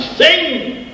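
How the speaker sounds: a sudden high cry of "Sing!" urging her on; urging call. Retold or imitated. Mother urges her silent daughter to sing, a high eager call.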